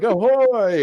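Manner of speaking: high, loud theatrical call; hammed-up hail. Host mimics Ruckus hailing the boat, hammed-up shout. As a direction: call out to a boat like a showy villain.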